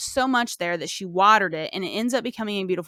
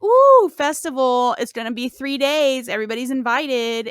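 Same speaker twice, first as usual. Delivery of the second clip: hammed-up king announcing a feast; playful pompous king; mock royal announcement; 3 semitones higher, 5 dB louder than usual. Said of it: "the king is like".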